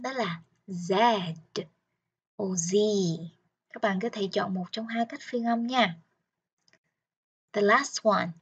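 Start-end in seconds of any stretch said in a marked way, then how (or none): 0.0-2.8 Z said slowly, first one way, then the other, as zee and zed; slow, careful Z, two versions side by side; two pronunciations of Z, taught slowly. Shown as a demonstration. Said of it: "Chữ cái Z có hai cách phát âm".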